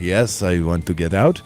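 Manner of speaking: terrible fake Norwegian accent; badly faked Norwegian accent. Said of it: "that was a terrible Norwegian accent".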